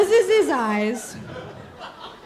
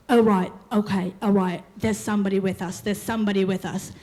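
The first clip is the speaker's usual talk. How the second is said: lowered trance voice, half-hamming; mock medium trance; 5 semitones lower than usual. Boyfriend playing medium to girlfriend, low mock trance voice.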